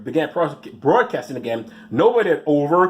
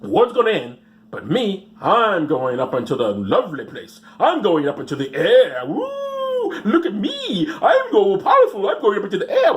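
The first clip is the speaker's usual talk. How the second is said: smug believer; 5 semitones higher than usual. Retold or imitated. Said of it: "It's like".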